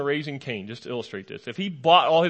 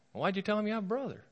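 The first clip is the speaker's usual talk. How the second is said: quick, higher mock-scolding father; 6 semitones higher, 9 dB quieter, faster than usual. Father Jacob scolds his sons for mentioning Benjamin, quick and higher. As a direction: fire it off like an exasperated dad.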